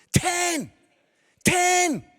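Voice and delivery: high, incredulous outburst; aghast exclamation. Acted. Aghast at daughter's bridesmaid request.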